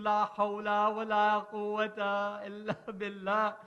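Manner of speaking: battle cry. A narrator's reading.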